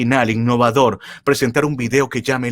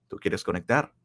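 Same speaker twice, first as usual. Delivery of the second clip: ordinary talk, nothing marked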